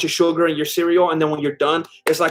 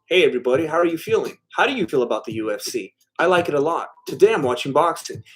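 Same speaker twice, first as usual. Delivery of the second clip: Vincent; faster than usual. Acted. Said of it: "I developed this character that goes by the name of Vincent".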